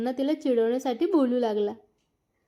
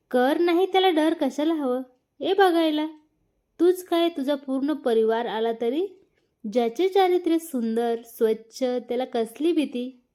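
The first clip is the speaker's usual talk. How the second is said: confident; 2 semitones higher than usual. Acted. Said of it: "अगदी आत्मविश्वासाने प्रियांश बोलला".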